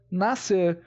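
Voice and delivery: "Nascer" with just one S sound, no K; silent C. Shown as a demonstration. Teacher contrasting it with Vasco, silent-C pronunciation. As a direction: say "Nascer" as "na-ser". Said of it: "O C não é pronunciado aqui, e sim o S".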